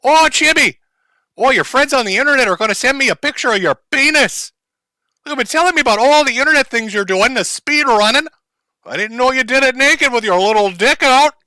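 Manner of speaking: high, squealy mock mom voice; mocking the mother. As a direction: ham up a gushing mother. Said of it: "voices the mother, mock".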